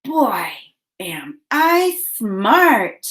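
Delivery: put-on slow count-along "Boy, am I smart"; separated, stretched words for "Boy, am I smart". Shown as a demonstration. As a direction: say "Boy, am I smart" slowly with pauses between words. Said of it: "Say it with me".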